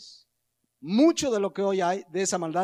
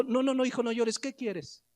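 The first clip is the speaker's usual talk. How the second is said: pleading indulgent parent; 4 semitones higher than usual. Retold or imitated. Parent soothing crying child.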